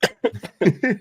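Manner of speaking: bursting into a high laugh. Real, not acted. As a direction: laugh it off, then talk through it. Laughing at co-host's pick.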